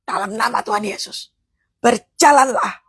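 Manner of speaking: understated closing command; measured word of command; prophetic prayer. Shown as a demonstration. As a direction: seal the prayer, then give the order. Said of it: "Ini namanya doa profetik".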